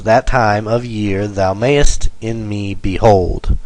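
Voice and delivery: regular beat on "time", "year", "may", "me", "hold"; iambic pentameter stress. Shown as a demonstration. Teacher reading a line of iambic pentameter, stressing every second syllable. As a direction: alternate light and strong, landing on "time" and "year". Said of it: "they're all unstressed, stressed".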